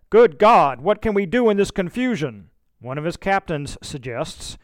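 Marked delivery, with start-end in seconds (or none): 0.1-2.5 much louder, higher exclamation; calling out. A narrator's reading. Shelby calls out in the confusion of the surrender, loud. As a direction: shout it over the chaos. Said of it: "calls out".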